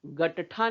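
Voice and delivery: गट्ठा as 'ga-ta-thaa', three syllables; wrong full-letter reading. Shown as a demonstration. Teacher showing what we don't say, 'ga-ta-thaa'. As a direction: give the ट of गट्ठा a full vowel. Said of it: "गट्ठा नहीं बोल रहे हैं ना".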